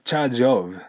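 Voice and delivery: "charge of" run together as "jov"; linked charge of. Shown as a demonstration. Teacher showing students the link. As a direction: let the J of "charge" slide into "of".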